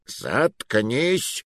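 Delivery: a mild bark. Acted. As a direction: Muroua cutting off the clerk. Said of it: "рявкнул Муруа".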